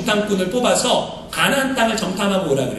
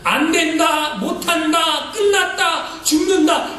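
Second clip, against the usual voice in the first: negative talk; 6 semitones higher, much slower than usual. Retold or imitated. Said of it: "부정적인 얘기 있잖아요".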